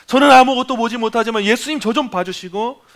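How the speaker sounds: a blind beggar calling out for mercy; crying out to Jesus. Retold or imitated. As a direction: beg desperately, voice lifted high. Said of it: "그렇게 부르짖었는지".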